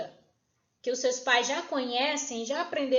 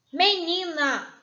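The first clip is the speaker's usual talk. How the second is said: MENINA slow, louder and stretched out; drawn-out word; 3 semitones higher, 4 dB louder, much slower than usual. Shown as a demonstration. Teacher presenting an example word to pupils, drawn out. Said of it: "Preste atenção nessa palavrinha".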